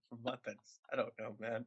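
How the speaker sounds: normal talking voice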